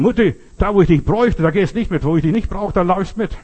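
vorwurfsvoll und lauter, höher; empörtes Kind schimpft mit der Mutter; schimpfend. Retold or imitated. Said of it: "Ich hab auf meine Mutter geschimpft". (Kind schimpft lauter mit der Mutter)

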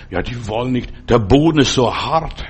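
a lightly voiced grumbling excuse-maker; mock the reluctant ones with a grumble; whining excuse. Preacher mimics people who won't share faith, a light whiny grumble.

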